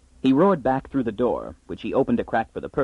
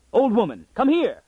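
much higher, louder shout; excited shout; 11 semitones higher, 3 dB louder than usual. Acted. Farmer shouting his wife out to see the ship, excited yell. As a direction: yell for her to come see. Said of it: "his mouth fell open in a shout".

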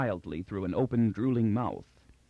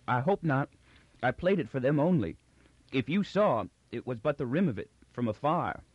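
timid clown Magnifico; 3 semitones higher than usual. Acted. Magnifico's voice, held.

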